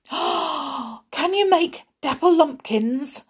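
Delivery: high, eager, tongue-tied question; excited spluttering. Acted. Doc asks Snow White for his favourite dish, excited spluttering. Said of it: "Doc spluttered excitedly".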